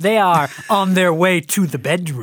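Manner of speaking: lively, showy delivery with pizzazz. Rereading a play's opening narration that lacked pizzazz: with pizzazz. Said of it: "Jackson didn't say it with any pizzazz, so I'm going to try it".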